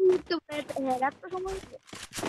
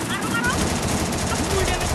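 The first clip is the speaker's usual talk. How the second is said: loud, high urgent yell; excited shout; 4 semitones higher, 8 dB louder, faster than usual. Real, not acted. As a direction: shout it out mid-fight. Urging a kill in a firefight.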